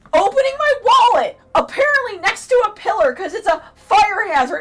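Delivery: high, loud outraged rant; loud exasperated complaint; indignant rant. Real, not acted. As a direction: vent the unfairness at full volume. Ranting about being yelled at.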